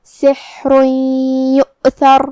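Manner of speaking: سحر یؤثر recited with the tanween merged into a held, doubled y; سحر یؤثر, slow with a drawn-out nasal y; nasal merge with doubling. Shown as a demonstration. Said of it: "تشدید کے ساتھ یہ حکم کو ادا کریں گے".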